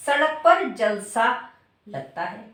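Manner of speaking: जलसा slowly split as जल, सा; जल-सा as hyphenated words. Shown as a demonstration. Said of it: "जल dash सा". (जल और सा अलग-अलग, धीरे)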